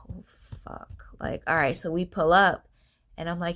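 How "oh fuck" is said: very soft, sinking exhale of words; dismayed whisper. Retold or imitated. Mother dreading showing the kids the place, dismayed whisper. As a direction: swear under your breath in dread.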